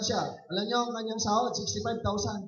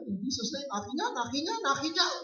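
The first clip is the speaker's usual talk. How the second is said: imitated tearful claiming; 7 semitones higher than usual. Pastor retelling a weeping mother claiming it, imitated tearful voice. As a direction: imitate a crying mother, pitch lifting on each repeat. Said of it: "iyak na iyak".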